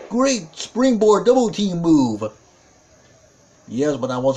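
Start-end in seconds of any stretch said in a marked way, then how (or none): 0.1-2.2 high, impressed wrestling call; excited play-by-play. Real, not acted. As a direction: sell the big move to viewers. Calling a big tag-team move.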